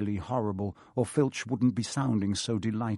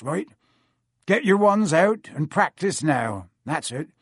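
higher, louder instructions; hearty gamekeeper; 5 semitones higher, 5 dB louder than usual. Acted. Hagrid splitting up the students, higher and loud. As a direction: organise the group briskly.

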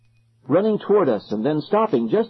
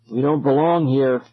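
crying out. Acted. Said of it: "Ben cried".

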